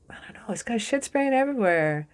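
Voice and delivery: hushed, breathy aside to the viewer; whispered aside. Real, not acted. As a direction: whisper it like a secret. Aside about messy magician card.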